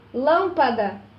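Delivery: lâmpada with "lâm" as the strong beat; stress on antepenultimate syllable. Shown as a demonstration. Teacher repeating the example word, lâmpada stressed on "lâm". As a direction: stress the "lâm" of lâmpada, then let it fall. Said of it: "antepenúltima sílaba mais forte".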